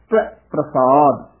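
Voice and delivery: ਤਵੈ clipped short before ਪ੍ਰਸਾਦ; faint u-glide into brief ai in ਤਵੈ; correct pronunciation. Shown as a demonstration. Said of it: "ਉਚਾਰਨ ਕਰਨਾ ਹੈ". (ਤਵੈ ਪ੍ਰਸਾਦ, 'ਤਵੈ' ਸੂਖਮ ਤੇ ਛੋਟਾ)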